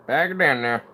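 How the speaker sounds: put-on redneck twang; redneck accent. Muttering to oneself while packing it down, in a redneck accent. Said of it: "redneck accent hardcore".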